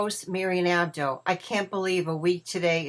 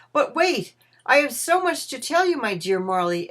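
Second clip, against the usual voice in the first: high, urgent burst that settles by the end; eager exclamation; 6 semitones higher, 6 dB louder than usual. A narrator's reading. Ebenezer stops Marley's ghost to tell him much, eager exclamation. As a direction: stop him eagerly, voice jumping up. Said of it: "exclaimed Ebenezer".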